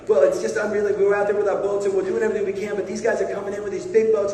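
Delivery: put-on exasperated Boston-accented fisherman. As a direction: protest in a worked-up Boston accent. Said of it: "with a Boston accent".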